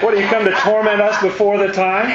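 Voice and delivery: amused, laughing reading of the line; laughing while quoting. Real, not acted. Teacher laughing as he rereads the demons' question. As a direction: quote the demons through laughter.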